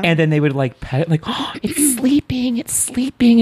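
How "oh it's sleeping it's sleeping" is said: high sing-song voice. Retold or imitated. Acting out a childhood party line.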